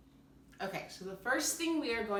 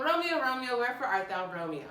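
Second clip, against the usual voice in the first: louder, higher Juliet calling quickly; 5 semitones higher, 4 dB louder than usual. Shown as a demonstration. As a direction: call out to Romeo below the balcony. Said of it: "so now we go".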